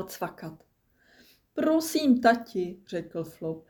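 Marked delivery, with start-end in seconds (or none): 1.5-2.8 put-on high, pleading child voice; small voice imploring a parent. A narrator's reading. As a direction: beg dad, starting high. Penguin child begs his father.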